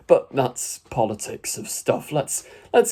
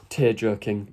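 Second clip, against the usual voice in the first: a wistful half-sigh on the word "Tear-jerking."; mock sad sigh. Shown as a demonstration.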